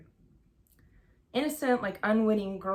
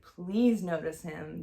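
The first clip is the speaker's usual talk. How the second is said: drawn-out, louder retold plea; pleading; 5 dB louder, slower than usual. Girl silently begging the nurse to see him, pleading. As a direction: imitate begging, stretching the words slowly. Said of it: "pleading with that nurse".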